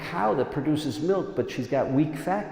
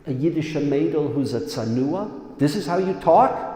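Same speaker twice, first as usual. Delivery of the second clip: rising outrage, louder toward the end; indignant rebuke; 2 semitones higher, 3 dB louder than usual. Acted. Preacher rebukes the crude talk about a righteous woman, indignant. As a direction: scold them for speaking so crudely. Rebuking how they speak of her.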